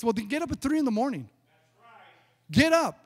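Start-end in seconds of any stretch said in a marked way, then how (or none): 2.5-3.0 raised, higher-pitched preacher's command; forceful exhortation. Real, not acted. Pastor answering excuses about early work, forceful exhortation. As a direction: fire it out loud as an order.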